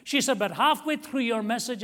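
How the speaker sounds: rising, tearful plea; tearful retelling. Retold or imitated. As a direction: voice climbing high and loud, near tears. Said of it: "And then she started to cry".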